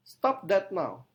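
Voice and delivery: loud command demo, each word stressed; every word stressed. Shown as a demonstration. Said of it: "setiap kata ditekankan".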